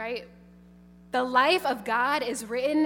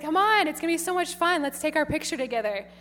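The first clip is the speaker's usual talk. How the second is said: quick, higher, upbeat coaxing; 4 semitones higher, faster than usual. Retold or imitated. Nun coaxing a reluctant girl, fast cheerful. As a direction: sell the fun.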